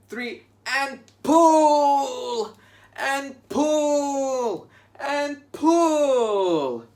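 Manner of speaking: high, loud straining heave calls; heave, shout every pull; tug of war. Pretend. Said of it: "pull the rope together".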